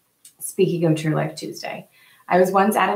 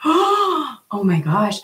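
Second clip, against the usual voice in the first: slow, higher "oh my gosh" after a gasp; shocked gasp; 6 semitones higher, 3 dB louder, much slower than usual. Retold or imitated. Hearing a friend's despair, slow shocked gasp. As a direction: let the shock land slowly. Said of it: "it was just like".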